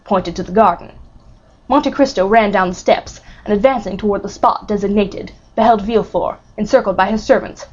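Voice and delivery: plain reading voice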